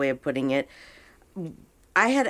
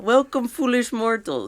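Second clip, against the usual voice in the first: high, loud spooky host voice; dark lord; 8 semitones higher, 4 dB louder than usual. Pretend. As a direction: boom out a haunted-house greeting. Spooky greeter for the dead.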